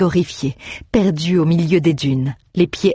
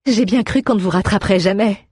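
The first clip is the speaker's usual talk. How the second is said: admitting; 5 semitones higher than usual. A narrator's reading. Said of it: "avoua Kathleen".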